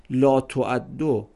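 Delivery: لا تعدو spoken very slowly, lɔ toædo; slow vowelled reading. Shown as a demonstration. Teacher demonstrating vowels at the start, very slowly. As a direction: draw out لا تعدو syllable by syllable.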